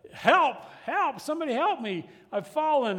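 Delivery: high, loud desperate cries for help; man hanging from a cliff yells up for help, loud and desperate; yelling for help. Acted. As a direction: shout up to the trail for rescue. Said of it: "he's yelling out up to the trail".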